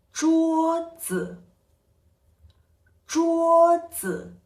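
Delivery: 桌子 with 桌 held high and flat, 子 light and short; neutral tone. Shown as a demonstration. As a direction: keep 桌 level and high, tap 子 lightly. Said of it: "this intonation is a light, short one".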